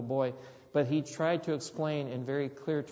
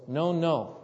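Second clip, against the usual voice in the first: put-on toddler scolding himself; 3 semitones higher, 5 dB louder than usual. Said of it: "he pulls back his hand and goes".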